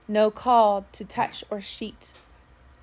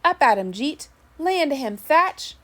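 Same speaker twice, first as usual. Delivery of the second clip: higher, louder excited cheering; shouting excitedly; 6 semitones higher, 6 dB louder than usual. A narrator's reading. Sailors cheer on the fighters, excited louder shouts. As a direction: egg the fighters on from the crowd. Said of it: "I heard voices shouting excitedly".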